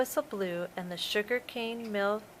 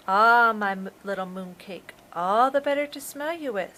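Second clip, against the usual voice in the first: quickly; 3 dB louder than usual. Acted. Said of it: "said the shark quickly".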